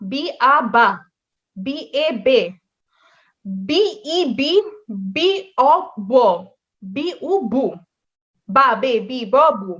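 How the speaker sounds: letter, vowel, then the joined syllable, measured; syllable drill. Shown as a demonstration. Teacher blending B with each Italian vowel, syllable drill. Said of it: "যেমন বি সাথে বা".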